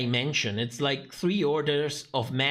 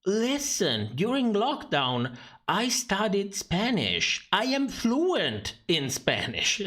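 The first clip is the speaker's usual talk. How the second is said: mock Michelle; 5 semitones higher, slower than usual. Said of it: "told them".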